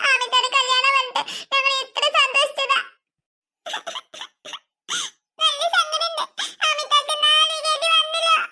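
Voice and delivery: put-on sobs between phrases; mock tearful lament; fake crying. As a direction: pretend to weep in sympathy. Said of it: "കരയണ പോലെ അഭിനയിച്ച് നിക്കാം".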